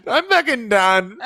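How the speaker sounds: slow, exasperated Shannon impression; a lightly voiced fed-up Shannon; imitating Shannon. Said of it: "That's Shannon Bedore".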